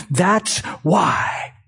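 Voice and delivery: shouted, driving it home; preacher's emphatic repeat. Real, not acted.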